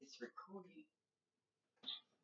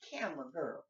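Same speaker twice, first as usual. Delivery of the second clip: calling out louder across the room; yelling across the room; 5 dB louder than usual. Real, not acted. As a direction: raise your voice to reach her. Calling to camera girl.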